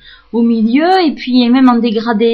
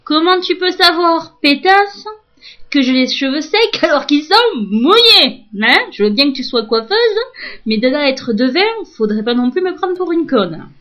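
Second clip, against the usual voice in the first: indignant inner rant; 4 semitones higher than usual. Retold or imitated. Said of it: "Que je lui dis une fois plus dans ma tête".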